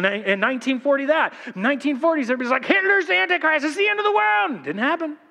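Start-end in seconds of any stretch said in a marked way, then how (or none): 2.6-4.5 high mock-alarmed cry; mock panic. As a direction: ham up the panicked prophet. Everybody's like.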